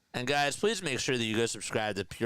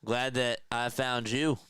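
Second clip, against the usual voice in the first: sappy; 2 semitones higher than usual. Acted. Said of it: "I gotta get the right sound effect".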